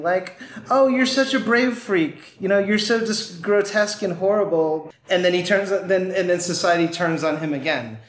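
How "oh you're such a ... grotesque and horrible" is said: lightly mocking, higher-pitched fake admiration; condescending praise. Society patronizing the freak it embraces, condescending. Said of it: "in a very condescending".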